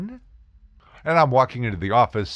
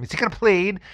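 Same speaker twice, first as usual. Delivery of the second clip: pushy prosecutor; 10 semitones higher, faster than usual. Retold or imitated. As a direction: press for the answer one more time, exasperated. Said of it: "and of course the same attitude".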